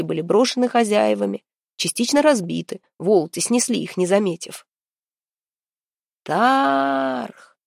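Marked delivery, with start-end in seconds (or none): 6.2-7.6 calling out a name in challenge; shout. Acted. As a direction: shout his enemy's name across the square. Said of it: "закричал Гвидон".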